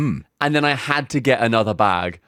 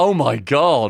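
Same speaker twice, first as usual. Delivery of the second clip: mock tickled, giggly, laughing amused voice. Retelling the reaction the speaker expected from a cashier: imitating an amused, laughing reaction. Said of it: "I thought she would have laughed and been like".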